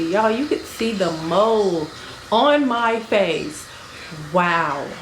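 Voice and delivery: loud, slowed amazement; amazed. Real, not acted. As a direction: stretch it out in disbelief. Amazed at camera detail.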